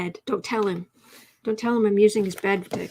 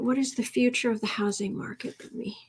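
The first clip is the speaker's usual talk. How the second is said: whispered reading to herself; hushed read-through; 5 dB quieter than usual. Real, not acted. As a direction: mouth the question quietly. Reading question under breath.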